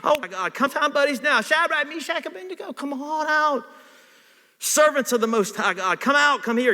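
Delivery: king shouting into the flaming furnace. A narrator's reading. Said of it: "and he shouted".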